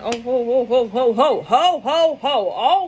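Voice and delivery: belly-laugh like a jolly Santa; Santa Claus laugh. Acted. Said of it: "I am the real fucking Santa Claus".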